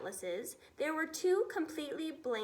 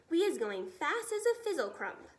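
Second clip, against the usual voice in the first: excited giant; 3 semitones higher, 4 dB louder than usual. Acted. BFG speaks before top gear.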